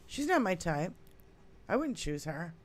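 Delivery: a bad Irish accent; lightly put-on Irish accent. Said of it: "in your Irish accent".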